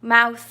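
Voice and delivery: ماوث ending on an unbuzzed TH; ماوث with no throat vibration in the final TH; voiceless TH. Shown as a demonstration. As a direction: let only air out on the end of ماوث. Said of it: "گلوی من ایجاد نمیشه وقتی اینو میگم".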